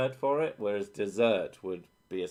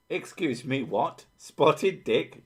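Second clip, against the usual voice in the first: incredulous; 4 semitones higher, slower than usual. Real, not acted. Incredulous outburst.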